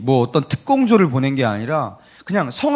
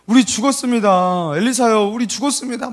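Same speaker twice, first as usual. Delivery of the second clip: acted frantic pleading, pitched up; panicked wailing; 4 semitones higher than usual. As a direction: wail to the master that all is lost. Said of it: "이렇게 소리를 치면서". (난리 치며 울부짖듯)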